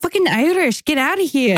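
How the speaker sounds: put-on Irish accent sliding into Boston; badly faked Irish mixed with Boston; Irish accent attempt. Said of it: "keep mixing with Boston for some reason".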